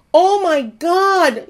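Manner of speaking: lightly acted, choked-up gasp of thanks; retold tearful cry. Imitating the neighbor overwhelmed by the groceries, a mild tearful cry. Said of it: "she starts sobbing".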